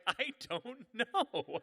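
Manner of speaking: high, loud, drawn-out helplessness; acted-out flustered plea; panicked protest. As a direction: stretch it out in mock panic. Flustered intruder answering the couple.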